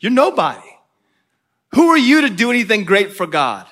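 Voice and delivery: retold taunt with punched questions. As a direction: imitate an enemy belittling them. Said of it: "he's taunting them and just saying".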